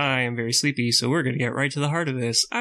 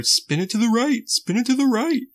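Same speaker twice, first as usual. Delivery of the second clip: called order; 10 semitones higher than usual. Retold or imitated. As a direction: shout it across the water. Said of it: "had to give the order".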